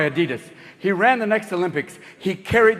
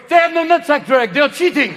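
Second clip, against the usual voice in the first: pissed-off French; 7 semitones higher, 4 dB louder than usual. Acted. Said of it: "the French got pissed off going".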